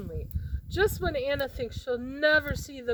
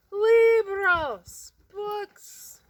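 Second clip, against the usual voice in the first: excited discovery; 11 semitones higher, 10 dB louder, much slower than usual. Acted. Children spot the books.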